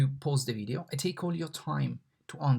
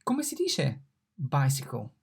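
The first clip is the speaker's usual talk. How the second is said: quizzing. Acted. Asking the class a quiz.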